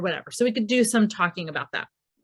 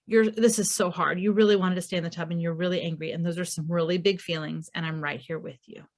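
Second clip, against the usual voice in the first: soft and sinking lower and quieter; soothing presence; 4 semitones lower, 4 dB quieter than usual. Retold or imitated. Mother comforting angry son in towel, softening to near hush. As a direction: stay right beside him, hushed. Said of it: "providing our presence and just showing up".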